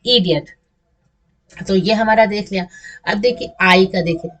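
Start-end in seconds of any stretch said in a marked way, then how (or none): 0.1-0.5 इडियट said easily as one word; short, unforced इडियट; relaxed, easy. Shown as a demonstration. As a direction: say इडियट casually, no stretching. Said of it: "ऐसे आराम से बोलते हैं".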